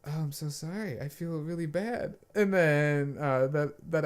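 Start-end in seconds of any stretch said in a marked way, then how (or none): 0.1-2.1 retold apology. Acting out apology to crying player.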